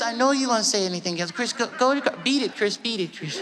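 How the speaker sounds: Impression of a singer. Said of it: "And Mike was like".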